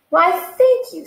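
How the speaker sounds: pleased surprise. Acted. Pig flattered by the compliment.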